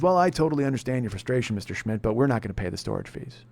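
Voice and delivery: low, soft, unbothered agent voice; customer-service drone brushing off an angry customer; bored insurance agent. Retold or imitated. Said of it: "ho-humming the shit out of me".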